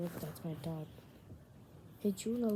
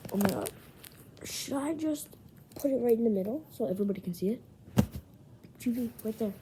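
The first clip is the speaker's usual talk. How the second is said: excited; 3 semitones higher, 5 dB louder, much faster than usual. Real, not acted. Excited showing off card.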